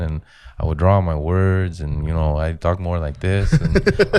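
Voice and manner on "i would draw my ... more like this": drawled words in a Mexican-American accent; old Mexican-American accent. Shown as a demonstration. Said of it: "a little bit more of an accent".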